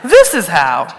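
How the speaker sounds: mock-calm explaining to daughter; very calm parent. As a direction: patiently point her to the picture. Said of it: "I say very calmly".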